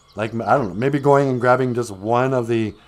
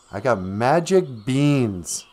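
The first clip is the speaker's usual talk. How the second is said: slow, drawn-out reveal of the goods; goblin's sales pitch; slower than usual. Acted. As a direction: present it as a wondrous offer. Goblin pitches beans to Jack.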